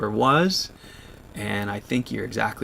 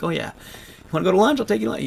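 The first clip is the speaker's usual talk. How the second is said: friend's voice; 8 semitones higher, much faster than usual. Retold or imitated. Imitating friend Corey inviting him to lunch, cheerful. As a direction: bounce it up like an eager friend. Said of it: "would always be like".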